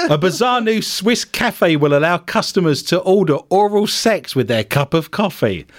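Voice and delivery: deadpan news story delivery; news read. Acted. Host reading a bizarre cafe story to co-hosts, news read. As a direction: read it out like a bulletin.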